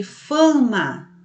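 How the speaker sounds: "fama" drawn out with a nasal first A; nasal sound. Shown as a demonstration. Teacher showing pupils a sound, "fama" slow and nasal. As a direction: stretch "fama" slowly, first A through the nose. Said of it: "tem esse som assim meio, é, nasal".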